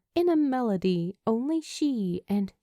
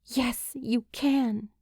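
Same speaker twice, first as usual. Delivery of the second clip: slow, firm and certain; a gentle but unshakable yes; firm insistence; 4 semitones higher, slower than usual. Acted. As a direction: insist on it, leave no room to argue. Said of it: "she insists firmly".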